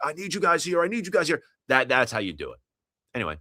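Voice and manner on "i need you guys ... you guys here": play-acted, very high, shouted hype-man voice. Retelling shouting out to the crowd at a show: imitating own shout. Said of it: "I'm shouting out like".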